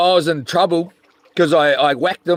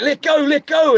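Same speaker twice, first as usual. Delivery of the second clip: urgent call; 8 semitones higher than usual. Retold or imitated. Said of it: "they were like".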